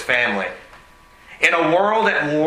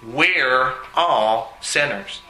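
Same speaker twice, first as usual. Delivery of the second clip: slow solemn statement; 3 semitones lower, much slower than usual. Shown as a demonstration. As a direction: let "We're all sinners" sink in slowly. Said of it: "But the reality is this".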